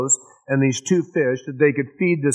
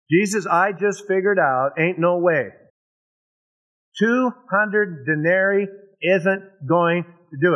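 emphatic verdict; 5 semitones higher than usual. Acted. Philip voiced reporting his verdict to Jesus.

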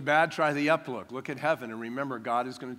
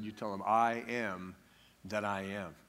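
much lower and softer, awed; hushed voice of God; 7 semitones lower, 7 dB quieter than usual. Retold or imitated. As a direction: speak as God from the bush, hushed. God speaking from burning bush.

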